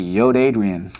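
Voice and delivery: lightly voiced Rocky calling Adrian; mild Rocky-style "Yo Adrian" joke; Rocky impression. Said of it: "Sounds like Rocky".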